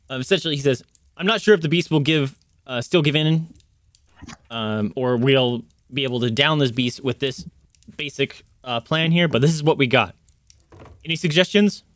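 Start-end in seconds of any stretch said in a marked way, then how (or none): 1.2-11.8 matter-of-fact captain; brisk, no-nonsense captain, lightly voiced. Captain asking the party for suggestions, matter-of-fact. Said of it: "he's a very matter of fact".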